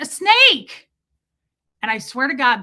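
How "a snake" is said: high, loud mock scream; retold squeal of fright; re-enacted alarm. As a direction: shriek the warning in comic panic. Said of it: "I went".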